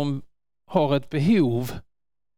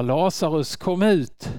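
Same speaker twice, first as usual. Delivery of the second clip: calling out. Acted.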